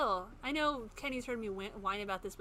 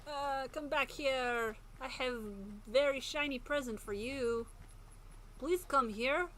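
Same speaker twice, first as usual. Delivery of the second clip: slow, coaxing creepy voice, a touch higher; creepy stalker voice; 4 semitones higher, slower than usual. Pretend. Player taunting a hiding enemy, slow creepy coaxing. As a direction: lure the enemy like a sinister clown. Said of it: "I don't even know what voice, what accent that is".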